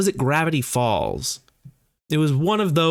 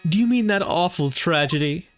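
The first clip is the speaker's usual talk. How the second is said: high character voice; 7 semitones higher than usual. Acted. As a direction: play a prim, eager character. Voicing a game character.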